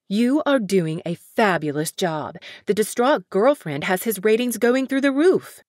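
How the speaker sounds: hammed-up pushy publicist; brash manager. Brash manager praises coldly.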